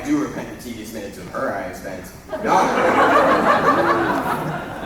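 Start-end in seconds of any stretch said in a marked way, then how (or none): 2.4-4.8 drawn-out falsetto. Acted. Lysander rejecting Hermia.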